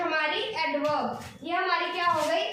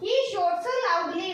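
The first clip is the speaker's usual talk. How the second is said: drawn-out reading of the example, word by word; slow, deliberate example sentence; slow dictation; much slower than usual. Shown as a demonstration. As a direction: read it slowly so students can follow. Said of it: "shouts का मतलब होता है चिल्लाना।".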